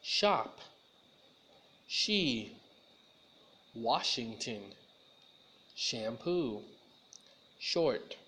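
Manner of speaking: slow, separate words, hushing each "sh"; "Washington" and "Shampoo" with a rounded, rushing "sh"; clear sh sound. Shown as a demonstration. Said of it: "Now you say it with me".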